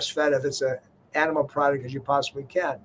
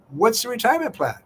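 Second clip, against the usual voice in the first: puzzled resident asking; 8 semitones higher, faster than usual. Retold or imitated. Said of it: "he said".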